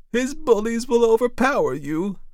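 very high, loud wail of alarm; anguished cry. A narrator's reading. Auntie warns her nephew of bullies, wailing in fear. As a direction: cry out in dread for his safety. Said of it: "she cried".

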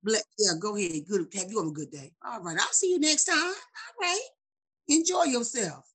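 sugary polite send-off with a smile; nice nasty. Shown as a demonstration. Showing how to answer upset people, nice nasty. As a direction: dismiss them sweetly, lightly put on. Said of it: "You just smile and say".

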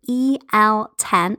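slow, each letter clear; spelled out slowly. Shown as a demonstration. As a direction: spell the code out carefully. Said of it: "That's E L ten".

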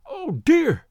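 high, loud, anguished "Oh, dear!"; panicked cry. Acted. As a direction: let it break upward in frantic despair. Frightened man near hysteria.

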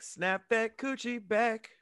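slow, whispered lyric; quiet, unvoiced-sounding whisper of a lyric; hushed quote. Quotes a lyric under breath.

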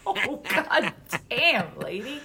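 drawn-out, laughing exasperation; mock exasperation. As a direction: stretch it out in amused disbelief at mom. Exasperated reaction to mother's complaint.

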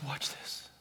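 barely voiced, very soft mimicry of someone crying; imitating someone too tearful to speak up; imitated tearful voice. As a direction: choke it out in a near whisper. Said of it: "and she's crying".

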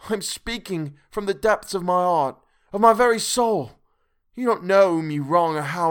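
high, loud, begging through tears; desperate tearful pleading. A narrator's reading. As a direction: plead for your life and soul, voice straining high. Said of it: "poured forth a torrent of entreaty".

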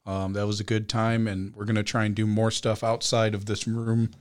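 short of breath, words fading; running out of air. Real, not acted. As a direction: talk with barely any air left. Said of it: "Choking a little bit or something?".

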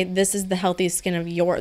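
your said with weight; stress on your. Shown as a demonstration. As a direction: lean on the word your. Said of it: "the key word being your life".

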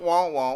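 Charlie Brown teacher voice; muffled trombone-like wah wah; muffled wah wah talk. Pretend. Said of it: "This sound like Charlie Brown, teacher in the background".

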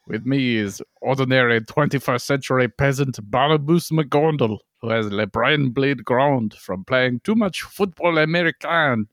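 mock French podcast host; French accent. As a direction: read the intro in a put-on French accent. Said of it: "do it in a French accent".

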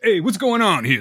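a hint of a panicky TV hero; mock Harold Perrineau. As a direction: parody a frantic TV actor asking what's going on. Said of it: "That's all Harold Perrineau fucking does".

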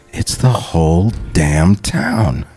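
slow, low, oddly flat movie quote; weird Jeffrey Jones read. Retold or imitated. Fan quotes his favourite Beetlejuice movie line. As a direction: drawl it out strangely. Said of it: "in this really weird way".

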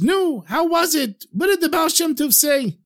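lightly voiced wife, pitched well up; questioning wife. Wife eagerly questions returning husband.

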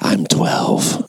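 breathy girlish voice, hammed up; mock little girl voice. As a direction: play a coy little girl, mockingly.

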